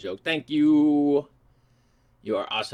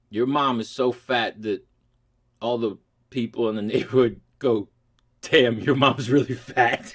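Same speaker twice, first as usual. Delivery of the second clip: laughing through it. Shown as a demonstration. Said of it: "I don't think I can do it with a straight face".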